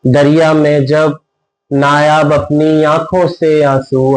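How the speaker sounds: measured mushaira-style verse reading; ghazal recitation. Acted. Poet presents a ghazal to a listening audience, measured recitation. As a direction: recite each line in rhythmic, sustained phrases.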